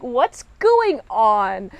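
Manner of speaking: very slow, stretched-out bafflement; baffled crew. Retold or imitated. Crew questioning their captain's odd move, baffled. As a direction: drag out GOING in mock confusion. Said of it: "Everyone else is like".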